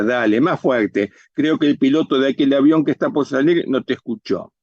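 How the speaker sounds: dry ironic encouragement; irónica. Acted. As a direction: egg him on sarcastically. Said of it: "Flor irónica". (ironía contenida)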